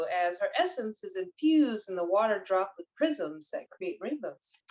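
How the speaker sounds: lilting read-aloud from a card. Real, not acted. Reader tells viewers about the Mayan moon goddess, reading aloud. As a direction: read it out with measured, rising and falling emphasis. Reads the card's text aloud.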